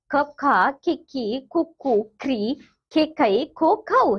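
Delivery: "खिक्की, खुक्कू" recited as short-long vowel pairs; syllable drill. Shown as a demonstration. Teacher running ख through every matra, syllable drill. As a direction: run evenly from "खप खा" to "खो खऊ", pair by pair. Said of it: "ख भी ले सकते हैं".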